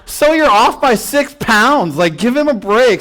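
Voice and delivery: very high, outraged squeal; mock-indignant wife snapping back at nurse. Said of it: "my wife just goes".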